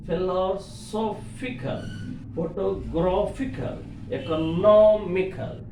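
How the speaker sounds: "philosophical, photographical, economical" stressing SOPH, GRAPH, NOM; stress before the suffix. Shown as a demonstration. Teacher listing examples, SOPH, GRAPH and NOM stressed. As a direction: raise the syllable before each "-ical". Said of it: "Suffix before syllable we have to stress".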